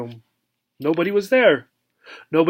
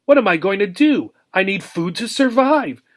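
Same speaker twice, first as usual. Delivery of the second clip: panicky; 4 semitones higher than usual. Acted. Panicked hamster voice.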